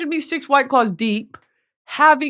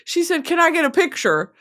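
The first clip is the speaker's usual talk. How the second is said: put-on excited young fan; 8 semitones higher than usual. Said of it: "She was like".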